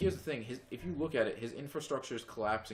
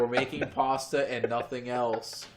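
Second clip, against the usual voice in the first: slow, louder put-on Italian voice; mock Italian accent; 6 dB louder, slower than usual. Voicing the Italians after the war, in slow mock Italian. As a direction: play a proud cartoon Italian. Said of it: "What the hell is the Italians doing".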